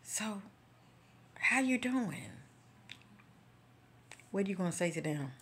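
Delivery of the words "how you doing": high-pitched friendly "how you doing"; bright acted greeting. Greeting people met out and about, high-pitched. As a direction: greet someone in a much higher voice.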